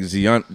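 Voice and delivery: Zion said as ZEE-on; alternative pronunciation. Shown as a demonstration. Unsure shopper trying out the sneaker name, Zion as ZEE-on. Tries both ways of saying the name.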